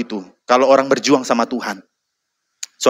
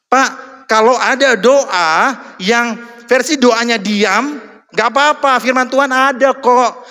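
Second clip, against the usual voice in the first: pleading churchgoer; 9 semitones higher, slower than usual. Retold or imitated. Quoting a churchgoer.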